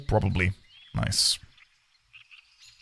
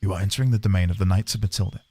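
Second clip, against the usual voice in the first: stern knight guard voice; 7 semitones lower, faster than usual. Acted. Reads gate guard NPC.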